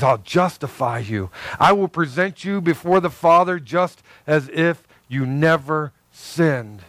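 low, slow, gentle promise; Jesus' tender voice. Pretend. Jesus promising the sinner, low and tender. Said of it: "And he says".

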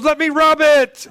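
high-pitched mock wife voice; eager wife. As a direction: offer help in an exaggerated high voice. Voicing wife offering to rub.

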